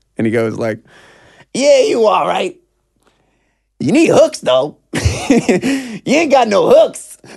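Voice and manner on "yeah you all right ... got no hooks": put-on very high, slow, drawn-out drunken voice. Retelling what a passerby said while walking past: imitating a drunk man. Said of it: "he's drunk".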